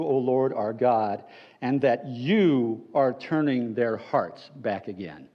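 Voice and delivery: a lightly voiced earnest plea to God; earnest prayer. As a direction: pray it humbly, slowing at the end. Reads Elijah's prayer.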